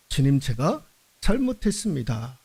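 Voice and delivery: low, soft confession with a small lift at the end; gentle contrite prayer; humble confession. Pretend. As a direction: say it quietly, like a penitent. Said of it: "고백할 수 있는".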